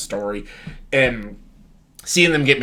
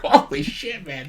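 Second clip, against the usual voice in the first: shocked disbelief; 3 semitones higher than usual. Retold or imitated. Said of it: "I'm like".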